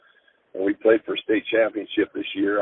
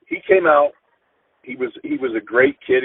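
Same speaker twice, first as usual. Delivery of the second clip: voice breaking. Real, not acted. Coach remembering his injured player, voice breaking. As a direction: pitch cracks high as grief breaks through.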